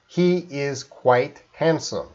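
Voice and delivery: slow, careful, word-by-word enunciation; slow dictation for a phone to catch; enunciating clearly. Shown as a demonstration. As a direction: say each word clearly and separately. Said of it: "you have to enunciate".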